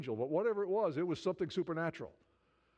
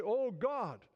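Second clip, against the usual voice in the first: raised-pitch, earnest mock prayer; crying out to God; 5 semitones higher than usual. Preacher voices the people's prayer to God, crying out. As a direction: plead upward, as if calling on God. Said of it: "cry out to God and say".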